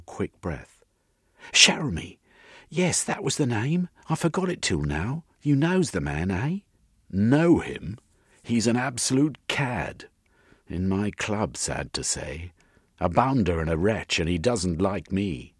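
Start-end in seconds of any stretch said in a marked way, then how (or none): 1.5-6.6 high, louder, eager woman's voice; excited woman character. Acted. Missus suddenly remembering the name, high excited voice. 7.1-15.5 raised, emphatic gentleman's complaint; indignant gentleman character. Acted. Jeremy condemning Fane to Missus, indignant and emphatic.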